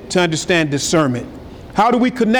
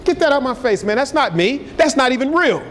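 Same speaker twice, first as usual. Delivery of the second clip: higher-pitched, mock indignant rebuff; dismissive refusal; 5 semitones higher than usual. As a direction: wave it away, pitched up. Acted rejection of God's word.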